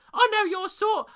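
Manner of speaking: shrill squawking raven shout. Acted. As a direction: screech it like an angry raven. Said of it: "he shouted".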